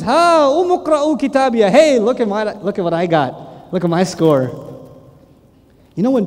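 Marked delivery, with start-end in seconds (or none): 0.0-4.7 slow, gloating show-off; proud bragging. Retold or imitated. Happy man with right-hand book brags: slow, gloating. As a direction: show off the good grade. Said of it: "he goes".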